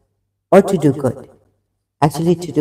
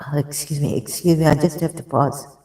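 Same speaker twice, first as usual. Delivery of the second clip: out of breath; 5 dB quieter than usual. Real, not acted. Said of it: "Out of breath".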